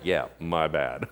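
sheepish. Acted. Peter admitting the imagined healing failed.

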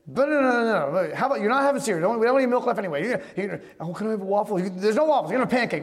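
rapid-fire mock parental fussing; worked-up retold breakfast argument; exasperated parent. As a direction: rattle off refusals like a harried parent. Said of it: "I start warming it up".

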